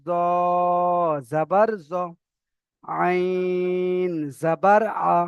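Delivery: letter name held long and level, final syllable short; drawn-out letter recitation. Shown as a demonstration. Teacher shows where the stretch belongs, measured chant. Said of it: "আইনে তিন আলিফ টান হলো".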